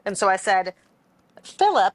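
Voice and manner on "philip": mimicking his accent. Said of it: "his English is kinda broken".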